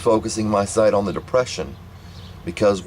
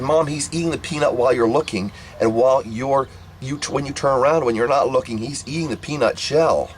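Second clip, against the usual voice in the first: pleading insistence; 5 semitones higher than usual. Retold or imitated. Child pleading to be believed.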